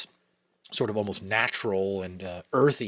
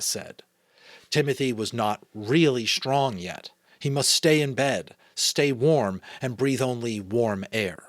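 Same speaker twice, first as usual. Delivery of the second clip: measured read-aloud storytelling; story narration; 3 semitones higher, 5 dB louder than usual. A narrator's reading. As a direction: read a children's novel aloud. Reads story aloud, comments plainly between.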